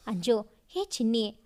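low, affectionate endearment; honeyed coaxing. A narrator's reading. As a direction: call your sweetheart with honey in your voice. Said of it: "ಜೇನು ಬೆರೆಸಿ ಮತ್ತೆ ಕೂಗಿದ".

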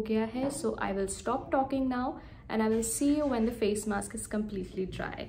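stiff drying face mask; limited lip and cheek movement; speaking with clay face mask. Real, not acted. Seen 2: Clay mask covers face while speaking; drying clay stiffens lips.

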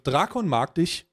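slow, measured dad explaining things; lightly played dad, word by word. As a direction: spell it out slowly like a patient father. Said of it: "Jetzt wird der Papa".

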